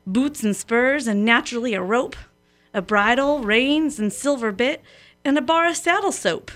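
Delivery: measured, rhythmic recitation of a cowboy poem; lightly performed cowboy verse; poem reading. A narrator's reading. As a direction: read it like a folksy poem on the radio. Reads a cowboy poem aloud.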